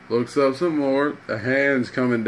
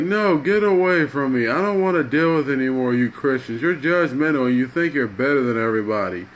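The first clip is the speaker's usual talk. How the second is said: acted defensive refusal; 2 semitones higher, faster than usual. Crackhead telling Christians to get away, mildly acted defensive protest. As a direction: push them away in a hurried protest.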